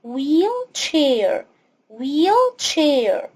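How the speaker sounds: "wheelchair" with the h silent, "weel-chair"; "wheelchair" spoken slowly with no h sound. Shown as a demonstration. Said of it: "الاتش هنا سايلنت".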